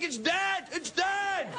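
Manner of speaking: high, repeated, pleading insistence; insistent reassurance. Retold or imitated. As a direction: convince him it's harmless. Reassuring friend the wasp is dead.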